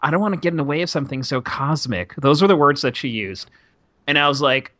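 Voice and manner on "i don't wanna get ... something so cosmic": mocking gushy stranger. Woman on train offers her seat, lightly mocked as gushy. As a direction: lightly imitate a gushing passenger giving up her seat. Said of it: "says in a very this voice".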